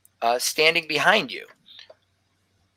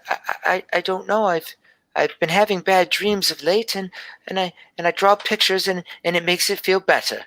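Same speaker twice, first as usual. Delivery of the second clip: lightly voiced young girl, slightly higher; a hint of a shy seven-year-old telling her dream; little girl Gelby; 5 semitones higher than usual.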